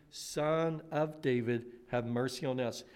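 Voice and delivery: quiet reflective prayerful plea; soft plea. Acted. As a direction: murmur the plea gently. Blind men's plea recalled softly.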